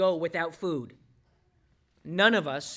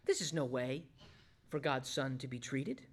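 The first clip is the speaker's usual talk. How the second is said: ordinary talk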